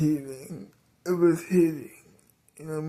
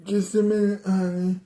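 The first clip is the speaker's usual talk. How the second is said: dad answering; 4 semitones higher than usual. Acted. Dad answers aunt calling him.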